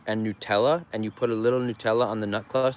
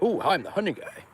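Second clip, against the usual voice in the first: higher, lightly voiced passer-by; mock customer voice; 7 semitones higher than usual. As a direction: tease as a gawking customer. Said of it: "They're like".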